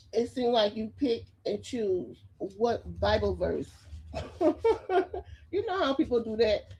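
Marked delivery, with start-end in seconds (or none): 4.4-6.7 laughing. Real, not acted. Laughing at her own jab.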